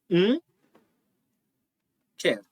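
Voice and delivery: Um quero with não squeezed to a bare nasal um; fast casual speech. Shown as a demonstration. Teacher demonstrating rapid speech to students, não reduced to um. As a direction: run it together so não becomes um before quero. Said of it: "Quando a gente pronuncia essa sentença muito rápido".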